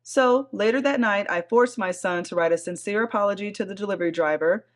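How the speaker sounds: measured read-aloud of a post; story narration. A narrator's reading. Host reading a Reddit thread to her co-host, story narration. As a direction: read it out evenly, like a written account.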